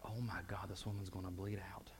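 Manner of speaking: soft, unvoiced whisper of dread; hushed inner voice of fear; whispered panic. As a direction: breathe it out like a terrified secret. Panicked private thought.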